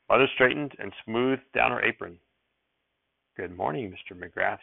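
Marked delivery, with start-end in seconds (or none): 3.4-4.6 soft, reserved good morning; quiet greeting. Acted. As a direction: answer him gently, holding back. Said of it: "she said quietly".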